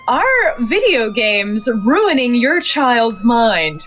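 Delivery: slow, dramatic news anchor; newscaster teaser. Acted. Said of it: "I love doing a newscaster voice".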